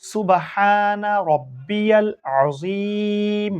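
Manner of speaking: slow, measured chant of the ruku praise; slow prayer recitation. Shown as a demonstration. Teacher recites the ruku tasbih for pupils, slow and chanted. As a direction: intone it evenly, stretching each word. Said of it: "আমরা কি পড়ব?".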